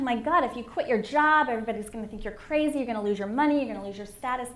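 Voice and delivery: lightly voiced anxious inner critic; voice of fear. Speaker voicing her inner gremlin's warnings, mildly alarmed fear voice. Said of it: "my fear was so loud".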